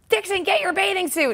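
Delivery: high, loud call from the street. Retold or imitated. Friend calling up from her van, loud call. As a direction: yell up to the window to come out.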